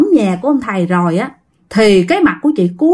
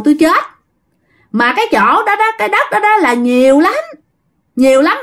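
spirit voice; 5 semitones higher than usual. Retold or imitated. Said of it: "chuyển qua nói giọng như đàn ông".

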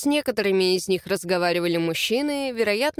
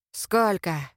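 hoarse low voice; 3 semitones lower than usual. A narrator's reading. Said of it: "прохрипел надо мной низкий и страшный голос".

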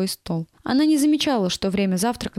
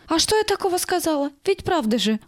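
higher, affronted protest; indignant; 8 semitones higher than usual. A narrator's reading. Nanny protests at the senior teacher, indignant. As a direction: defend herself, offended. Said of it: "возмутилась Люська".

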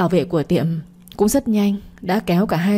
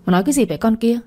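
put-on higher, menacing snap at the girl; threatening; 4 semitones higher, faster than usual. A narrator's reading. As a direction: threaten her through gritted teeth. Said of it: "nghiến răng dọa dẫm". (dọa dẫm hung dữ)

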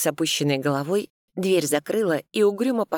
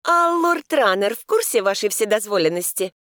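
higher, demanding challenge; 6 semitones higher, 4 dB louder than usual. A narrator's reading. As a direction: demand an answer sharply. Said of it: "Я требовательно вскинула бровь".

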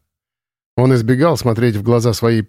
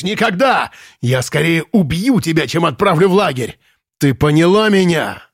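higher, mocking then furious threats; threatening rage; 5 semitones higher than usual. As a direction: throttle her with words. Commandant threatens, grabbing her throat. (комендант угрожает, держа её за горло)

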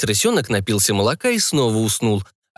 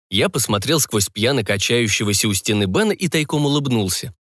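ordinary delivery, nothing marked

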